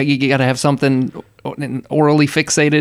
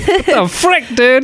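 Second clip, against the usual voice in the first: surprised; 11 semitones higher, slower than usual. Real, not acted. Reacts to gum in mouth.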